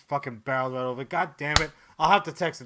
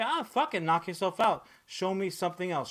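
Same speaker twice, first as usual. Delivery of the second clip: careless fan; 4 semitones higher than usual. Retold or imitated. Voicing a lukewarm fan.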